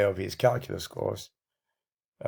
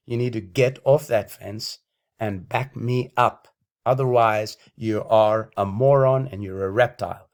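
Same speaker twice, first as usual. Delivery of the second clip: loud, heated ranting; angry rant; 4 dB louder than usual. Real, not acted. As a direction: lash out at critics. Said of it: "I've been on a bit of a rant".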